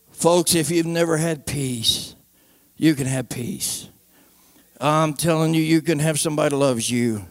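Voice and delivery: gentle preacher's plea; sincere altar appeal. Real, not acted.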